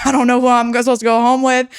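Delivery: giggling through a gloating quote; laughing self-mockery. Mocking her past self to the host, laughing. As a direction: laugh as you mock your old reckless self.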